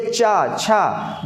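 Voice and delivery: touch the palate without curling for चा, छा; teacher's separated palatal चा, छा; palatal sounds demonstrated. Shown as a demonstration. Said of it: "ऊपर हल्की सी जा रही है".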